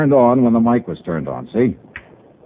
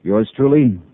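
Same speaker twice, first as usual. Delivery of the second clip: crisp radio detective wrap-up narration; hard-boiled narration. A narrator's reading. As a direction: close the case file like a private eye.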